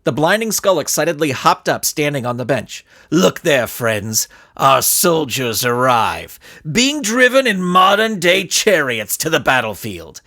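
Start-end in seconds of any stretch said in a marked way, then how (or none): 3.1-10.2 gleeful. Acted. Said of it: "He turned with glee".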